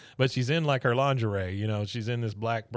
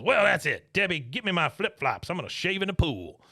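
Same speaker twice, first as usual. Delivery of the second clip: exasperated Buck; 6 semitones higher than usual. Retold or imitated. Buck fed up with Gail, hammed-up exasperated outburst.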